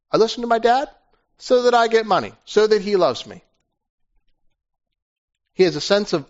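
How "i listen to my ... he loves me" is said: higher, grudging voice; resentful dutiful son. Acted. Son explaining why he obeys his father, grudging. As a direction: say it like a bargain, grumbling. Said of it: "out of duty".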